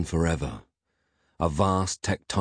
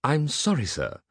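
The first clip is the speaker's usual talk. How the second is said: high, deferential robotic apology; apologetic robot butler; 10 semitones higher than usual. A narrator's reading. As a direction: apologize like a faithful robot servant. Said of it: "apologized the faithful robotic butler".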